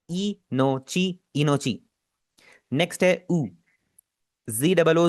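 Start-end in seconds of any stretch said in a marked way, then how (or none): 0.1-1.8 इनोची said slowly, each syllable clear; pronunciation demo. Shown as a demonstration. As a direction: model इनोची for learners. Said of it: "Japanese में बोलते हैं इनोची". (इनोची का साफ़ उच्चारण)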